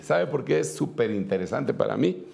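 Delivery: ordinary talk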